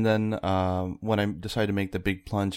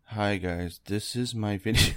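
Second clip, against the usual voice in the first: put-on cringey old intro voice; slower than usual. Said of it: "and it sounds".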